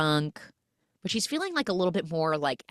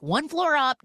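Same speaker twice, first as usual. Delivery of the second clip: frantic; 11 semitones higher, 5 dB louder than usual. Retold or imitated. Retold frantic pointing out to partner.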